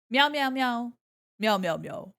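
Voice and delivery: loud rapid pretend meowing; playful cat impression; cat meows. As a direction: meow loudly in little triplets. Imitates a cat.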